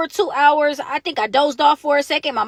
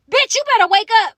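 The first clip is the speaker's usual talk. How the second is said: raised, higher-pitched retold demand; rousing order; 6 semitones higher, 4 dB louder than usual. Detainee to the half-asleep other girl, rousing her sharply. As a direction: jolt the sleeper awake.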